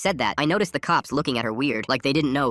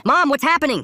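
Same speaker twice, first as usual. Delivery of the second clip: put-on high, loud alarmed kid; panicked cry; 13 semitones higher, 7 dB louder than usual. A narrator's reading. Child panics at police stop.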